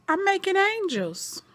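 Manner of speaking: mock menacing villain; TJ's creepy reply. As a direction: let it sound sinister. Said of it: "And T J says".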